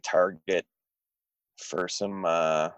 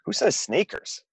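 incredulous; 11 semitones higher than usual. Real, not acted. Incredulous question.

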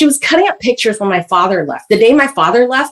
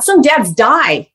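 blunt mother; 2 semitones higher, much slower than usual. Retold or imitated. Mother voiced lecturing.

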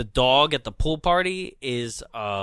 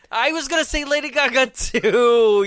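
high, loud burst of delight; excited agreement; 10 semitones higher, 6 dB louder than usual. Real, not acted. Agreeing with co-host about the lookalike, excited and high. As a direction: jump in excitedly, pitch way up.

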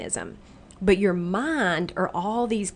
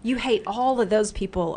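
voicing the brain; 4 semitones higher than usual.

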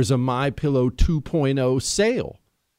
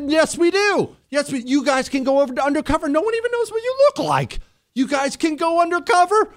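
giddy excitement; 10 semitones higher than usual. Real, not acted. Giddy about going to convention.

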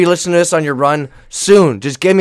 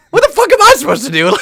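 high, laughing mock disbelief; cracking up while asking the coach; a laughing, exasperated question to the coach; laughing exasperation; 6 dB louder than usual.

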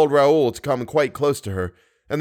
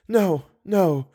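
sad refusal; 8 semitones higher than usual. A narrator's reading. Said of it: "shaking her head sadly".

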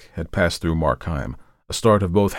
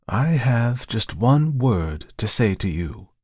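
slow, higher, stern ultimatum; stern dealer; 5 semitones higher, slower than usual. Acted. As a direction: lay down the law slowly.

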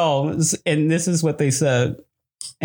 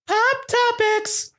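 even higher, slow jingle call; announcer voice; slower than usual. Shown as a demonstration. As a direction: stretch it out like a show jingle. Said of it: "segment title announced again".

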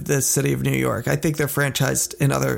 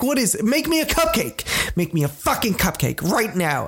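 mock angry demand; 4 semitones higher than usual. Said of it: "I get angry".

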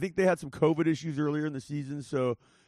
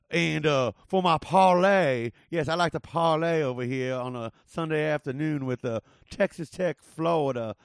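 Southern lawyer voice. Pretend. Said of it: "I'm gonna do this one in my Southern lawyer voice".

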